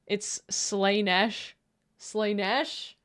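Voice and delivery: Slaanesh slowly as "SLAY-nesh", tune rising; doubtful trial pronunciation. Shown as a demonstration. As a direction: test Slaanesh with a long AY, questioning. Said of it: "I gotta call her Slaanesh".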